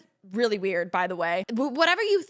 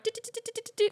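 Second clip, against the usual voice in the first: high, soft rapid do-do-do; imitated slot-machine beeps; 11 semitones higher, 5 dB quieter, much faster than usual. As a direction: mimic little machine beeps. Mimics pressing slot machine.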